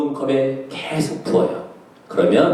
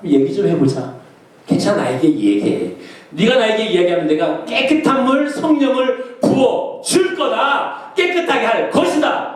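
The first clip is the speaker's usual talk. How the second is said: God inviting; 4 semitones higher than usual. Acted. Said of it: "하나님 말씀이야".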